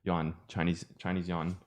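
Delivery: "Chinese yuan" run together quickly; quick natural "Chinese yuan". Shown as a demonstration. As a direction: rattle off "Chinese yuan" in one breath. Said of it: "you would say it faster".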